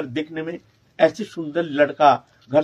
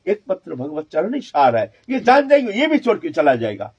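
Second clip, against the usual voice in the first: agitated, building to high, loud alarm; worried father; 5 semitones higher, 6 dB louder than usual. Retold or imitated. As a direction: fret aloud as a father fearing to lose his son. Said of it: "बहुत चिंतित हो गए".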